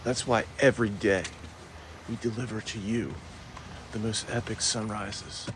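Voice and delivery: soft, spaced-out host delivery; hushed show intro. Real, not acted. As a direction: introduce the sunrise softly, pausing between phrases.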